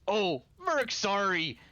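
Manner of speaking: a light careless brute apology; Merc's voice. Acted. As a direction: shrug it off like a big warrior. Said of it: "looks and goes".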